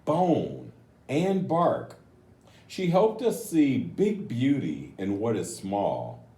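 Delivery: gentle, slowed storybook reading; reading to children. A narrator's reading. Reads the picture book aloud.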